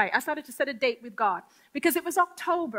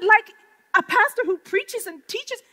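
amazed question; 7 semitones higher, 5 dB louder than usual. Retold or imitated. Excited follow-up question.

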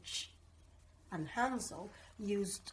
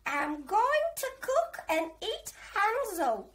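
much higher, loud cackly witch voice; 10 semitones higher, 5 dB louder than usual. A narrator's reading. Old witch inviting the children in, high and loud. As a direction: lure them in like a sweet-talking witch. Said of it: "she said".

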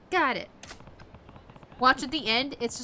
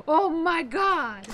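slow, dragged-out groan of disbelief; drawn-out exasperation; 3 semitones higher, much slower than usual. Acted. Robbed thug venting, slow exasperated groan. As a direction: stretch it out in despair.

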